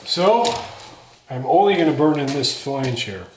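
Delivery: muffled through a dust mask. Real, not acted. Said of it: "sorry, I've got my dust mask on".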